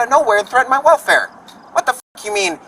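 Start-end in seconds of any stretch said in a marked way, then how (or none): 1.7-2.6 indignant outburst. Retold or imitated. Retold outburst at staff.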